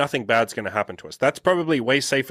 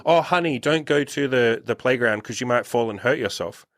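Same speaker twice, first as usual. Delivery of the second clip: doting parent voice. Retold or imitated. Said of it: "It's your parents saying".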